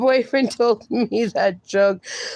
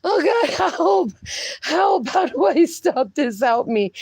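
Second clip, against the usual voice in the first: laughing plea; 2 semitones higher than usual. Real, not acted. Can't stop laughing.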